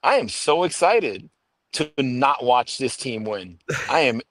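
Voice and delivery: feigned eagerness, slowing down midway; mock excitement. Jets fan dreading another losing season, mock excited. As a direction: play up the excitement ironically. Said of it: "hear the excitement in my voice".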